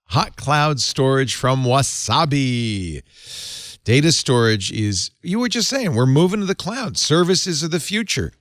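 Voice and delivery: conversational host-read advert; sponsor ad read. Acted. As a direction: sell the sponsor with emphatic, lively phrasing.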